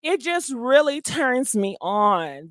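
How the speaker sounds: slow, drawn-out gushing self-praise; mock swooning. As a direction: savour every word, admiring your own act. Gushing over own man voice.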